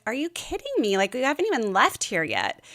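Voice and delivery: wife catching husband taking narcotics; exasperated. Retold or imitated. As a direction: snap at him in disbelief. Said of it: "I'm like".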